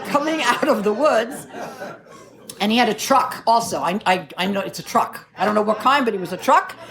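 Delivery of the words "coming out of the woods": high, laughing repeat. Real, not acted. Laughing while repeating the audience's word. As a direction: say it still laughing. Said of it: "repeats corrected word, laughing".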